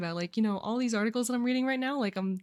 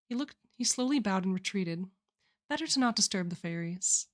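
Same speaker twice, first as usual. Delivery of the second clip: story narration. A narrator's reading. Reads a story aloud.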